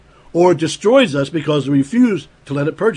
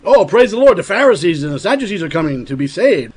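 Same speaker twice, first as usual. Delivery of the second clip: mock gushing praise; 2 semitones higher than usual. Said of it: "his response to them, we saw, wasn't".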